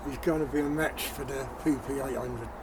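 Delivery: talking around a cigarette in mouth. Real, not acted. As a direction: speak with a cigarette held in the lips. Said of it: "Sorry if I've got a cigarette in my mouth".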